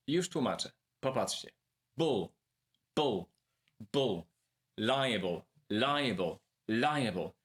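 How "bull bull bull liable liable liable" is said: "Bull" alone three times, then "Liable", each falling and separated by pauses; back-chained syllable drill. Shown as a demonstration. Teacher shows learners how to start from the end, drilled syllables. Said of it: "Jest bardzo prosty sposób. Zacznij od końca".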